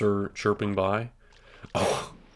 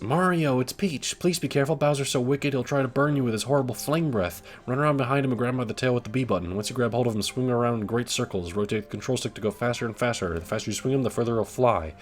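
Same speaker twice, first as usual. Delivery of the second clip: Princess Peach voice; 3 semitones higher than usual. Acted. Reading Peach's sign aloud.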